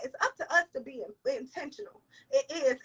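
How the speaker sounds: pushing through tears; tearful. Real, not acted. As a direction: voice breaking with tears. Crying while preaching.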